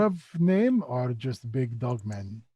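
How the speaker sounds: slow, stretched broken-speech question; Skitch, curious creature. Acted. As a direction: ask slowly like a simple curious creature.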